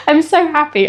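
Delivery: a real laugh breaking into the words; laughing happily. Real, not acted. Laughing as she tells viewers she's happy. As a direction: let a happy laugh carry the line.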